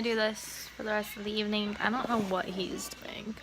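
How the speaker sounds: hushed aside to the camera; whisper. Real, not acted. Aside to viewers while filming child.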